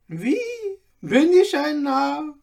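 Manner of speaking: put-on high, loud outcry of the old tailor; eager exclaim. A narrator's reading. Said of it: "rief der Alte". (aufgeregter Ausruf des Alten, viel höher und lauter)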